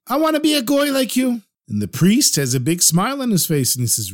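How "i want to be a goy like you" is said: high, pleading voice of the desperate rabbi. Acted. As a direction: beg like a rabbi who can't help himself. Rabbi begging priest to convert.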